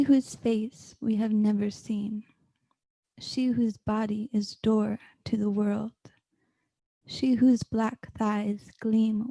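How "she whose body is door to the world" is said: reverent whisper. Acted. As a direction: hush it like a secret. Whispered line in poem.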